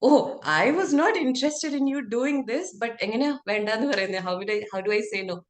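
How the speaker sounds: a touch of a delighted mum; relieved mom. Retold or imitated. Mom relieved the army plan is off, mildly mimicked.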